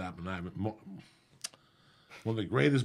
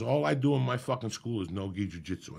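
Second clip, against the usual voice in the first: retold angry rant; 3 semitones higher, 6 dB louder than usual. Retold friend refusing loudly.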